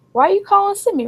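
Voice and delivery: high-pitched retold exasperation; exasperated. Friends to Beautiful on the phone call, exasperated. Friends confront caller in retelling.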